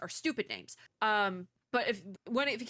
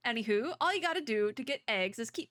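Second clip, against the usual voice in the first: bad Southern accent; 4 semitones higher, faster than usual. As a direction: read it as a folksy Southerner, badly. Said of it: "the really bad Southern accent".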